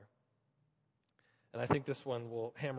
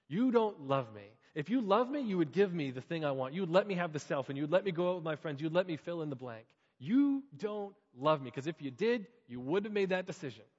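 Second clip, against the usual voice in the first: put-on angry teen; 3 semitones higher, 5 dB louder than usual. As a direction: throw it at the parent like a wounded teen. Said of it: "those dreaded gut-wrenching words".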